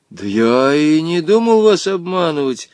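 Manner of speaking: a touch of trembling fear; shaky lying voice. Acted. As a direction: lie with a slight tremble. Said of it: "соврал дрожащим голосом Женя".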